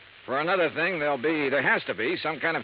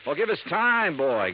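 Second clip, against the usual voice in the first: heated pushback; 5 semitones higher, 3 dB louder, slower than usual. Acted. Heated exchange with Lud.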